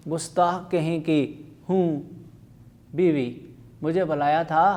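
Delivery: voicing husband and wife in turn, lively; reading a play aloud. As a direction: read the dialogue to the class with light character voices. Teacher reads a comic play aloud.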